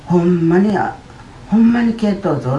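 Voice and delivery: imitating a stunned doctor exclaiming; amazed doctor.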